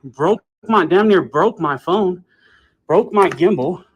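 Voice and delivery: loud indignant complaint; angry yelling. Real, not acted. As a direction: shout it out, outraged. Angry complaint about being grabbed.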